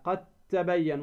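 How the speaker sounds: "قد تبين" as qat-tabayyan, no d; dal merged into ta. Shown as a demonstration. Teacher modelling the rule, د of قد merged into ت. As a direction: join قد to تبين on a doubled t. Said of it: "تدغم الدال في التاء".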